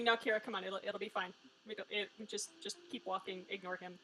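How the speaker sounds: low, soft placating aside; imitated hushed coaxing. Younger brother steering Kira away, imitated quiet coaxing. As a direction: coax quietly, fading almost to nothing.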